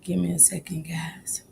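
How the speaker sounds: whispered aside, off mic; breathy whispered aside to the room. Real, not acted. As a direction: hush it, someone's on the line. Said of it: "whispering while on a call".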